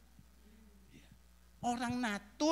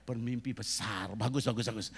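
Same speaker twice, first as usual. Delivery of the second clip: normal talking voice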